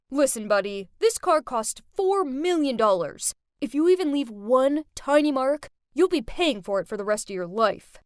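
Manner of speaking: loud, rude threat to the valet; shouting threat. Acted. Rich boy yelling at the valet, loud and rude. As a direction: bark it down at the help. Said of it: "he shouted at him and said".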